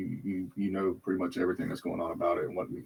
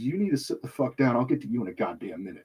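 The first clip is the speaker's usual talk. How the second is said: angry command. Retold or imitated. Snapping at principal.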